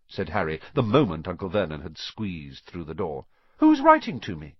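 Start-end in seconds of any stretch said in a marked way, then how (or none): 3.6-4.6 loud demand. A narrator's reading. Harry demanding.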